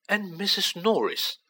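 eager whisper. Acted. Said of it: "he whispered eagerly".

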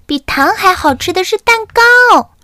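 high, chanting chick excitement; cheering chicks. Acted. Chicks cheer for Bagdi's cake, high and chanting. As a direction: chant it like happy little kids.

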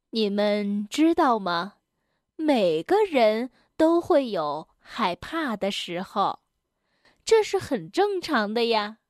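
lightly voiced kindly granny; reassuring Granny Bear. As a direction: gently reassure frightened little ones. (轻微熊婆婆腔，耐心安慰)

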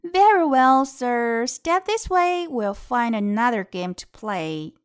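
breezy, offhand fox voice; casual shrug. Acted. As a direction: toss it off like you don't care. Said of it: "狐狸呢就说了".

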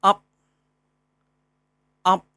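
stop-ending up, said twice sharply; sounding out final. Shown as a demonstration. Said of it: "我们看一下韵母".

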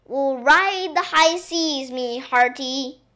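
rousing make-believe sea captain; playing pirate. A narrator's reading. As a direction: declaim it as a play pirate. Maid playing pirates with the princess.

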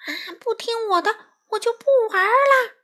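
high, loud tantrum shout; full-throated yell. A narrator's reading. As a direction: yell the threat at the top of your lungs. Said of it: "花袜子扯开嗓子喊".

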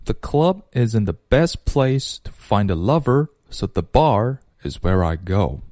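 measured, rhythmic model reading; 先慢读顺. Shown as a demonstration. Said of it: "所以我们先这样去读". (不急不忙地按节奏读顺)

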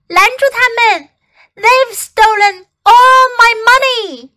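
high, loud frantic cry; panicked frantic pleading. Acted. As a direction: shout it in a panic. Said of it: "Screamed the woman".

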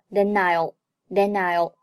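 "then I'll" said like "the-nile"; linked pronunciation. Shown as a demonstration. Teacher demonstrates 连读, "then I'll" linked. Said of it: "then和I'll连读".

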